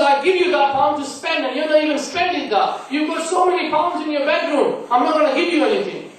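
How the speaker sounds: angry father. Retold or imitated. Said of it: "He gets angry".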